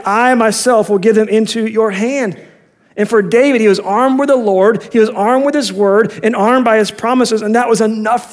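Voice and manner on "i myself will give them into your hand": "I myself" stressed, in a higher pitch; raised, deliberate emphasis on "I myself"; emphatic promise. Acted. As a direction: put the weight on "I myself". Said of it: "It's emphatic".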